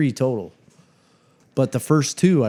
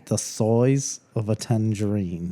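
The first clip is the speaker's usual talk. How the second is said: attempted Australian; 3 dB quieter, slower than usual. Shown as a demonstration. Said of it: "I don't think I said that right".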